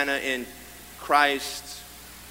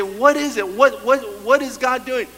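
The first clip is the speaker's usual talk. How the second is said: mock bewildered asking, raised pitch; puzzled churchgoer; 6 semitones higher, 6 dB louder than usual. Preacher voicing a puzzled listener, bewildered. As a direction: voice the confused believer asking what God is doing. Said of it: "You might say".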